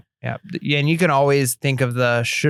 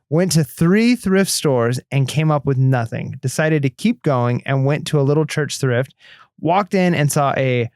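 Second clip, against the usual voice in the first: reading a message aloud; slower than usual. Shown as a demonstration. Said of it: "I'm gonna read this without doing that".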